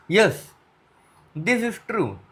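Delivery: speaking around a pen held in the teeth; stick clamped in mouth. Shown as a demonstration. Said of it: "by holding a pen in my mouth".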